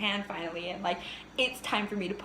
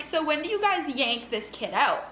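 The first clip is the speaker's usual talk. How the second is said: dead serious question; 5 semitones higher, 5 dB louder than usual. Retold or imitated. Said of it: "and then I'm like".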